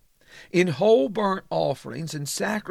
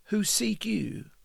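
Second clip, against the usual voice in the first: whisper; 2 semitones higher than usual. Acted. Preacher drops to whisper.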